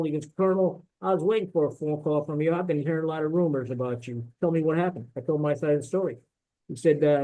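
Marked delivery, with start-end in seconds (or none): 0.4-5.1 light Southern lawyer drawl, loosely imitated; a hint of a Southern drawl, relaxed and friendly; mildly imitating a Southern lawyer's drawl. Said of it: "he's got the Southern drawl".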